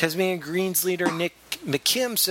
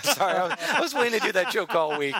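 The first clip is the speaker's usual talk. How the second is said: laughing; 5 semitones higher, faster than usual. Real, not acted. Laughing after his joke.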